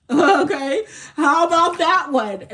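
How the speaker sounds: big, loud sassy retort; loud sassy refusal. Retold or imitated. Repeats her refusal, now loud.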